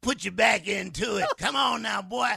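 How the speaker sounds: mock bossy coaching. Coaching the man in bed.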